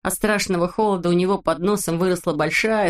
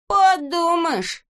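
much higher, slow scoffing voice; dismissive Neznaika; 11 semitones higher, much slower than usual. A narrator's reading. Neznaika scoffs at missing Znaika, high slow dismissive voice. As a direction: shrug it off with scorn. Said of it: "ответил Незнайка".

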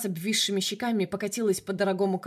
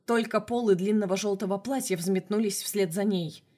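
usual speaking voice

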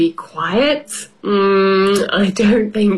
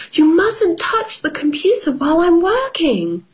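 stern mother; 9 semitones higher than usual. Acted. Mummy voiced in story.

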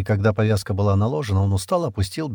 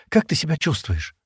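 caring; 6 semitones higher than usual. A narrator's reading. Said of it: "участливо спросила она".

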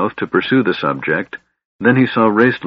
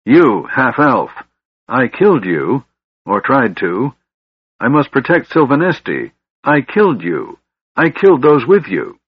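high, raised, hate-filled outburst; snarling accusation; 5 semitones higher, 4 dB louder than usual. A narrator's reading. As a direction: accuse the enemy with mounting frenzy. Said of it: "Lorak snarled".

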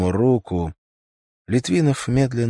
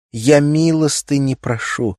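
high, loud burst of pleading; an involuntary cry for alms; sudden outburst; 7 semitones higher, 5 dB louder than usual. A narrator's reading. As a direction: blurt it out, unable to hold back. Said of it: "с невольным, неудержимым порывом".

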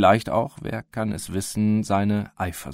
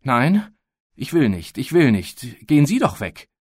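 tearful protest; 5 semitones higher, 5 dB louder than usual. Acted. Girl defends boy, near tears.

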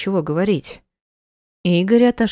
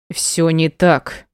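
slow, curt male bark; husband snapping back; barked denial; 3 dB louder, much slower than usual. Acted. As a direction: bark it at her, cutting her off. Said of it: "гаркнул Игорь".

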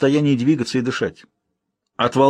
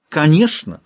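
крик; 5 semitones higher, slower than usual. Acted. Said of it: "закричала княгиня".

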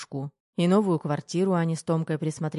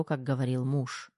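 ordinary delivery, nothing marked

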